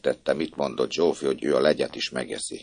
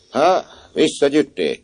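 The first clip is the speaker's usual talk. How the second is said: surprised question; 10 semitones higher, 5 dB louder than usual. A narrator's reading. Swineherd asks surprised.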